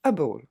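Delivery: Able said with two weak E sounds; unstressed able, like a ball; English able. Shown as a demonstration. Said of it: "c'est deux sons E". (Able en deux sons E, jamais accentué)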